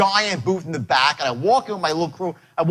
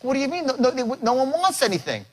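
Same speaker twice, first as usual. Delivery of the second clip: Shelley crying; 7 semitones higher than usual. Retold or imitated. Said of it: "She's like".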